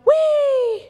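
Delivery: high mock roller-coaster squeal; playful whee. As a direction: let out a drawn-out, playful whee. Imitates a roller coaster ride.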